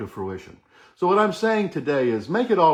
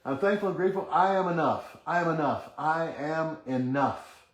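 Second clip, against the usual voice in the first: guided affirmation; 3 semitones higher, 3 dB quieter than usual. Shown as a demonstration. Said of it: "So let's get a position".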